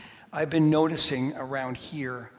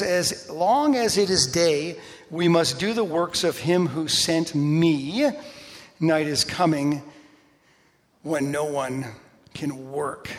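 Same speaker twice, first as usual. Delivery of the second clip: louder, slow and solemn; preaching Jesus' words; 5 dB louder, slower than usual. Acted. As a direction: proclaim it slowly, loud.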